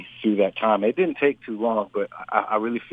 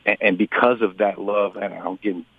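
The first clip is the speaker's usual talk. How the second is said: choked up. Real, not acted. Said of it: "I'm getting choked up right now".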